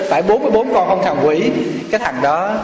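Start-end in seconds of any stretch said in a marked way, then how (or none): 0.1-1.5 higher retold threat through clenched teeth; gritted teeth. Angry buyer confronts the lying kid, through gritted teeth. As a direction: repeat the accusation, mock-menacing. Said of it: "ông nghiến răng lên, ông làm cái ghê".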